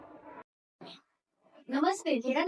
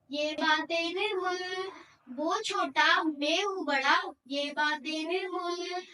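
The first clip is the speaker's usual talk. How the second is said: poem recitation. Acted. Student presenting a poet's couplets to an audience, measured recitation. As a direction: recite each phrase separately, stretching the last word. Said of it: "कविता प्रस्तुत करने जा रहा हूँ".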